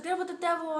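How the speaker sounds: high, contained mock scream; retold scream. Cellmate shaking the door, mildly mimicked screaming. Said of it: "like, screaming still".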